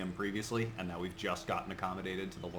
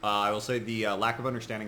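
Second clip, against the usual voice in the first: louder, to be heard clearly; speaking up; 2 semitones higher, 7 dB louder, faster than usual. Real, not acted. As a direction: project it so they hear. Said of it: "speak up, please, Art".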